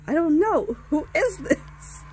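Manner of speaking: mock exasperated caller; impatient demand. Man demanding to know who is on the line, exasperated. Man's impatience on phone call.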